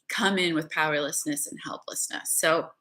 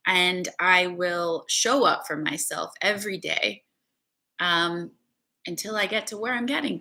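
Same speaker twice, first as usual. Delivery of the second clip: spoken affirmation. Acted. Leads a spoken commitment.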